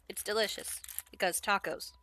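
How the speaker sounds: soft whispered aside. Real, not acted. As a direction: whisper it through the taco. Whispered aside while eating.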